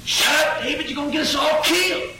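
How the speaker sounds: high, urgent hush; scared brothers hushing. Acted. Brothers scolding David to hush, high and urgent.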